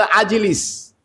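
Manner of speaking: "আজিলিস" said with an a at the start; regional Arabic word. Shown as a demonstration. Preacher contrasting Arabic dialects for the congregation. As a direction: alternate form "আজিলিস". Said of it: "আর কেউ বলে".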